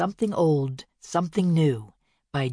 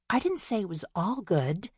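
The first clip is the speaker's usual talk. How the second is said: pouting; 3 semitones higher than usual. Acted. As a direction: pout it out. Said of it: "Bea pouted".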